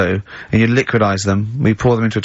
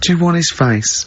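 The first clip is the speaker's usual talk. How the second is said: same offer again; 5 semitones higher than usual. Retold or imitated. Doctor repeating the offer, dropping flat. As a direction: land the second face flatly downward. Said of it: "And you go".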